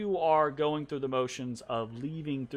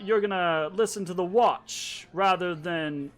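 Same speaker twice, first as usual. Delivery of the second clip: incredulous superior; 4 semitones higher, 4 dB louder than usual. Acted. Officer pulls rank on sergeant.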